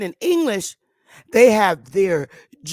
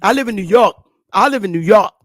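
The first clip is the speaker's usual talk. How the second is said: New York talk, pitched up a little; New York accent; 6 dB louder, faster than usual. Shown as a demonstration. Speaker showing off how locals say they live there, New York accent. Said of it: "talking like a goddamn New York aborigine".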